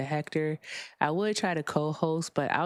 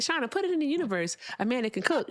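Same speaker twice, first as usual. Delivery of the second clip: quoting herself; 8 semitones higher, faster than usual. Retold or imitated. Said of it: "I said".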